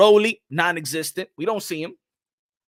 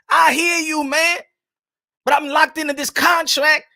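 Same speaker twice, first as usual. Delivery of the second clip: lightly raised imitation of Gervonta, pleading; mildly higher, pleading friend voice; voicing Gervonta; 4 semitones higher than usual. Punch's friend pleading he is stuck in a contract. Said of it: "He's like".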